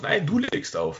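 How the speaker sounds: high, playful lovey-dovey voice; giggly late night call. Pretend. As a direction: coo it like a smitten teen on the phone. Mock lovers' hang-up game.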